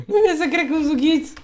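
high-pitched, loud exasperated whine; exasperated disbelief. Real, not acted. Exasperated by own hiccups. (văicăreală exasperată, pe ton înalt)

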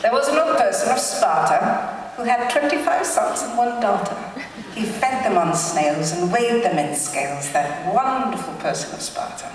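a hint of a fake British accent. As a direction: recite it like a mock British reader. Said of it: "do it in a fake British accent".

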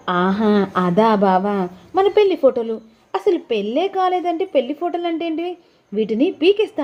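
coy and teasing about the photos; voiced wife. Narrator voices wife Bhoomi.

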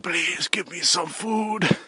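high, slow North Korean caricature; North Korean accent. Acted. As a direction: plead slowly in a mock North Korean accent. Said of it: "The North Korean accent will be".

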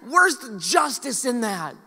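slow, high indignant musing; self-righteous grumble. Retold or imitated. Pastor recalling his indignation at the driver, slow self-righteous grumble. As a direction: sound wronged and smug. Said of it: "And I thought to myself".

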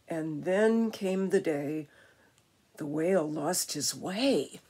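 rhythmic, dramatic storytime reading; animated reading aloud; picture-book narration. A narrator's reading. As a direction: read the rhyme to children with rolling emphasis.

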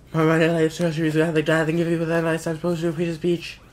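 loud cartoon raving; acted outburst. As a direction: belt it out at high pitch. Acted outburst of game character.

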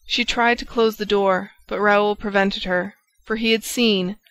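usual speaking voice

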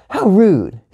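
sharp, high-pitched outburst; indignant yell. A narrator's reading. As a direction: yell it like an offended kid. Gia's yelled catchphrase again.

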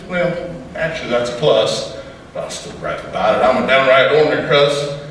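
rhythmic cowboy poem delivery; poem recitation. Acted. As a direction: recite it like a campfire poet.

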